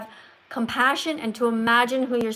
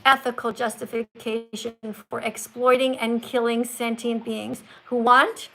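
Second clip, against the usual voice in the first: slow careful reading. Shown as a demonstration. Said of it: "you emphasize it".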